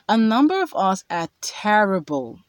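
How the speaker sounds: "terrible" leaned on and held; stress on terrible. Shown as a demonstration. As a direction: hit the word "terrible". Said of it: "emphasis on terrible".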